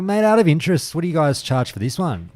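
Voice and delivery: high, loud cheeky chatter; mock innocent shopper pointing at the dearest mic; cheeky fuckwit. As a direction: play the cheeky customer. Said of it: "just gonna be a cheeky fuckwit".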